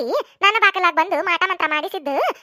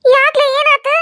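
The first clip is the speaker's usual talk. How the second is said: startled; 8 semitones higher, 8 dB louder, much slower than usual. Acted. Startled reply.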